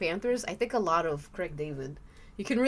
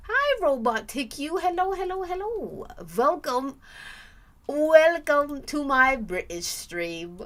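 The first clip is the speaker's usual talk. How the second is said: put-on posh British greeting; sing-song mock British welcome; playful fake English accent; 6 semitones higher, 6 dB louder than usual. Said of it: "working on my accent".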